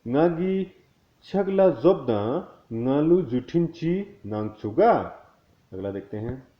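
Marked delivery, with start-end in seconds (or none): 0.1-4.9 fluent with tone. Shown as a demonstration. Teacher to learners, now the whole sentence fluent and tuneful. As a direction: run it together at full speed, higher, with the tune. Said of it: "अब इसको अगर पूरा fluent बोलना है तो".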